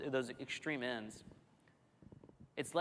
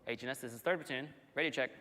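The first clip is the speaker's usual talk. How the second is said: crackly military radio. Retold or imitated. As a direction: call it in over the radio. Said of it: "What you didn't want to happen".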